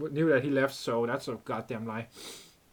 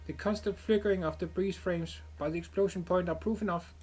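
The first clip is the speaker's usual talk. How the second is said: a lightly raised, crisp report voice; analytic character; 6 semitones higher than usual. Acted. Streamer voicing the analyst reporting the explosions, crisp report. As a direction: deliver it as a calm machine-like analyst.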